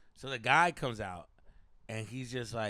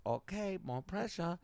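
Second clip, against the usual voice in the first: put-on Asian accent; 4 semitones higher, slower than usual. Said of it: "I did the accent the whole time".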